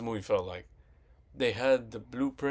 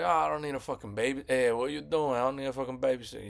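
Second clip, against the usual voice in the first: put-on fast, snippy girl's retort, a little higher; bratty retort; 3 semitones higher, faster than usual. Girl snaps at the boy walking her home, fast and bratty. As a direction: rattle off a mock bratty comeback.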